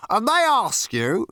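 high, urgent prompting; officious, impatient questioning; insistent pressing. A narrator's reading. Zarniwoop presses the man.

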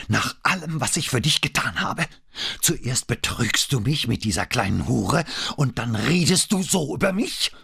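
outraged high voice climbing to a screech; increasingly shrill. A narrator's reading. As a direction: accuse him, shriller with each question. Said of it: "Ihre Stimme wurde mit jeder Frage schriller". (immer schriller vor Wut)

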